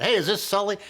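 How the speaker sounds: high, excited fan calling out; eager stranger recognizing someone. Retold or imitated. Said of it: "They get a lot of that".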